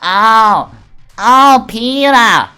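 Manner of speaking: slow, loud, high pained groan of a name; a try at Kurakami's voice. Acted. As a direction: drag it out, hurting. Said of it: "How do I do Kurakami's voice".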